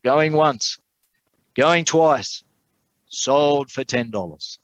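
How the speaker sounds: high calls, then a slow drawn-out close; auctioneer closing sale. A narrator's reading. Auctioneer knocks down the painting, ringing out the closing call. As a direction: call the countdown high, stretch the final word of sale.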